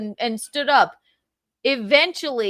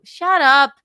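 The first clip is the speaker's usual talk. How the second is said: loud, abrupt cut-off; angry dismissal; 3 semitones higher, 9 dB louder than usual. Real, not acted. Man cuts off Carl's version of events, angry dismissal. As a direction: silence them with one loud burst. Angry at the other man's account.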